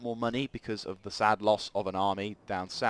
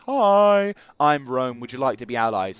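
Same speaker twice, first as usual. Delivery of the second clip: cheery diplomat greeting; 2 semitones higher, 10 dB louder than usual. Pretend. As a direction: greet them like an eager salesman. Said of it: "and say".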